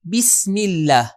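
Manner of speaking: بسم said slowly with a short "bi"; slow, careful "bi" opening on بسم; correct pronunciation demo. Shown as a demonstration. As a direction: sound out بسم اللہ as "bis-mil-lah". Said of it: "جو صحیح تلفظ ہے".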